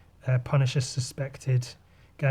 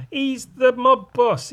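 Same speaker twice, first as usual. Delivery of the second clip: gasp, then slow, much higher, louder reveal; shocked gasp; 10 semitones higher, 5 dB louder, slower than usual. Acted. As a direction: act stunned at the twist. Shocked reveal in comic narration.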